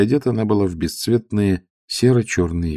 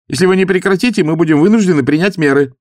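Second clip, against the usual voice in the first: loud, higher official warning; young officer; 11 semitones higher, 7 dB louder, faster than usual. A narrator's reading. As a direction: lay down the rule. Officer warns passenger.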